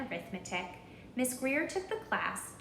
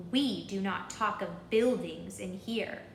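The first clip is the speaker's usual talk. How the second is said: stern teacher. Acted. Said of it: "she had this to say".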